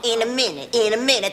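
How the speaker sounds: sarcastic echo of her daughter's excuse; mother mocking daughter's stalling, sarcastic. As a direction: parrot her stalling back at her. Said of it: "That's your middle name".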